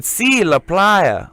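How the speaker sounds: slow patient correction. Retold or imitated. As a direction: spell it out slowly for the gringo. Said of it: "And he said".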